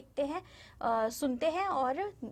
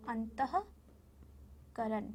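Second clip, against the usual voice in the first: अंतःकरण drawn out syllable by syllable, softer; very slow demo; 3 semitones lower, 8 dB quieter, much slower than usual. Shown as a demonstration. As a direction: stretch अंतःकरण very slowly for children to copy. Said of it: "teacher slowly models word". (अंतःकरण बहुत धीरे-धीरे)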